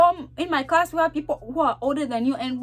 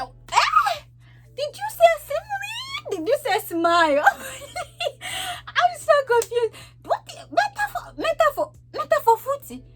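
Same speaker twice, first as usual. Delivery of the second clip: confused student voice, much higher and baffled; confused, high-pitched; 13 semitones higher than usual. Retold or imitated. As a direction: squeak out in total confusion. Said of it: "confused student reacting to teacher".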